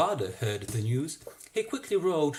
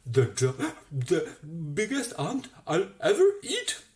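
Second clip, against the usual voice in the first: gleeful murmur; 4 semitones higher, 5 dB louder than usual. Acted. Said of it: "murmuring as it chewed".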